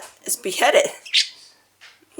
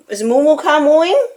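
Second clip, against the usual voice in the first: pet talk; 6 semitones higher, 4 dB louder than usual. Real, not acted. Asking the parrot.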